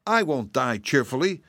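protesting kitten. A narrator's reading. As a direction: object indignantly as a little cat. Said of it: "protested the kitten".

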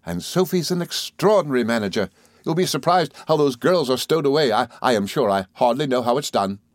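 lightly voiced eager, rambling friend; a touch of proud, homely enthusiasm; Traddles, cheerfully apologetic.

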